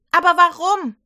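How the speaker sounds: high, loud baffled cry; puzzled outcry. Acted. Johanna asks the women at the empty grave, loud and baffled. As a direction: cry out in disbelief.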